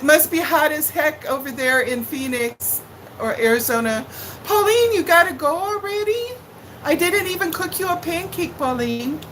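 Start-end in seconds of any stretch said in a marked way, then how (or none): 4.4-9.2 higher, whiny plea not to leave; a mock-tearful plea to the departing viewer; mock pleading. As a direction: beg her to stay, hammed-up. Viewer Pauline leaving the stream.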